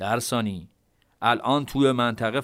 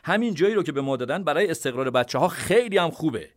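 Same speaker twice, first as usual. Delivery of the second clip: deliberate, higher voice of a calm commander; measured tone; 5 semitones higher than usual. Acted. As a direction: spell it out calmly, word by word. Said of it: "با لحنی شمرده گفت".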